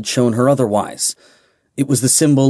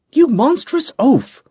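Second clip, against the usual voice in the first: furious shout; 3 dB louder than usual. Acted. Striking him in angry relief.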